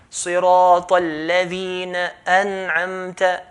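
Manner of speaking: touch the nun and let go in أنعمت; recited with a light nun. Shown as a demonstration. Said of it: "not going to hold the Nun".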